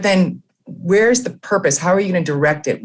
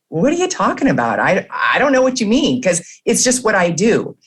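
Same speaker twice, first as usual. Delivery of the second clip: lightly voiced baffled fish, pitched higher; puzzled fish; 5 semitones higher than usual. Fish answering praise of its swimming, lightly puzzled. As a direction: play a fish mildly bewildered, voice lifted. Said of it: "and the fish is like".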